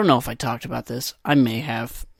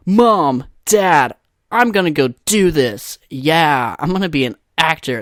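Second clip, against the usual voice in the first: hammed-up eager declaration; mock aspiring actor; 3 semitones higher, 4 dB louder than usual. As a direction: announce it grandly to your parents. Imagined hopeful actor telling parents.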